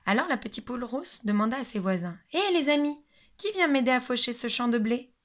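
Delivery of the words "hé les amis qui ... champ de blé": higher, bright call to friends; little hen calling her friends for help. Acted. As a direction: call out to the neighbours cheerfully. Hen calls her neighbours.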